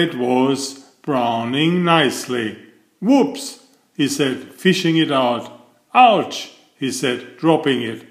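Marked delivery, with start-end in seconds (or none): 3.0-3.6 high squeaky comic whoops. A narrator's reading. Mister Clumsy fumbling the hot letter, high comic whoops. Clumsy man after a mishap. 5.9-6.5 high, louder comic yelp of pain; ouch. A narrator's reading. Mister Clumsy grabbing the hot letter, comic yelp.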